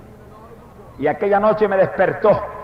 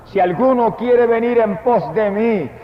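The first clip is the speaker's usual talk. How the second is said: solemn scripture; 5 semitones higher, slower than usual. Acted. Quoting Jesus' words.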